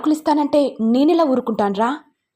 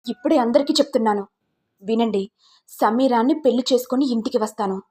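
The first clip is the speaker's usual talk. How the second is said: heated reproach, mildly raised voice; reproachful; 3 semitones higher, 3 dB louder than usual. Acted. Son blaming his mother for his unhappiness, mildly heated reproach. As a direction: blame her, then lay down the decision.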